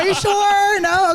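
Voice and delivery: high, teasing little question; mock hopeful pleading. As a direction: imitate a cheeky last try, voice way up. Retold hopeful plea for a pass.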